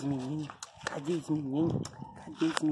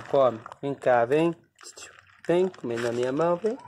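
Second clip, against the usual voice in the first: louder, calling the pet over to eat from his hand; loud coaxing call; 6 dB louder than usual. Real, not acted. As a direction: call it out firmly to coax him.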